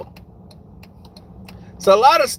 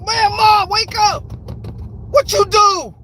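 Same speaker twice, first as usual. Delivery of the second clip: panicked; 10 semitones higher than usual. Retold or imitated. Retold panic over knocked-out mama.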